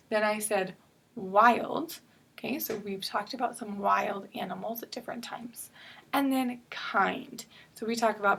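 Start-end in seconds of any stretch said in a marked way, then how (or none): 1.1-2.0 "wild" set apart with a drawn-out I; long I. Shown as a demonstration. Teacher listing an example word, "wild" with long I. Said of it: "going to be a long I sound". 6.7-7.4 "kind" slow, with the I held; long I. Shown as a demonstration. Teacher listing an example word, slow "kind" with long I. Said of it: "going to be a long I sound".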